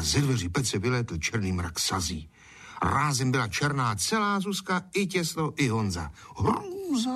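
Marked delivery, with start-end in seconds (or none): 6.4-7.1 very high shocked cry of Hrůza; horrified cry. A narrator's reading. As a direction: shriek it out in horror. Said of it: "vykřikla Zuzka".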